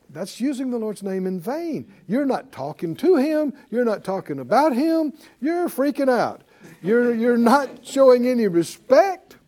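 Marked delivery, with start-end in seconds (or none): none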